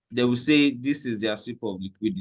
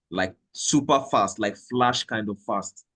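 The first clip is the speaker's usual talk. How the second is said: "fast" given deliberate weight; stress on fast. Real, not acted. Trader telling exchangers what service he needs, emphatic on fast. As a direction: drive home "fast" at each phrase end. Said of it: "I am emphasizing on the word fast".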